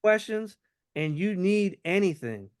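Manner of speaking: casual, winding-down sign-off tone; offhanded, about to leave. Shown as a demonstration. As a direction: sound like you're heading to your next call. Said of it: "a subtle tone of, like, I'm about to go on my next call".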